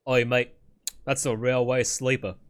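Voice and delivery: mock Cockney "Oi, mate", loud and cheeky; British accent. Streamer mocks the British naming railway ties, hammed-up British accent. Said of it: "I was very proud of my British accent there".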